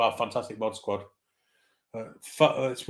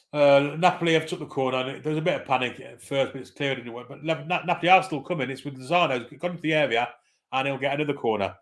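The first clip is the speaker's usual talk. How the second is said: higher-pitched running football commentary; live play-by-play; 4 semitones higher than usual. Real, not acted. Commentator following a Napoli corner for listeners, raised-pitch play-by-play. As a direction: call the attack as it unfolds, pitch lifted.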